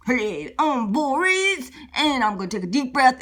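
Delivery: lightly voiced big bear; swaggering bear contestant; boastful bear Boris. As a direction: draw out the greeting as a showy bear. Boris steps up to compete.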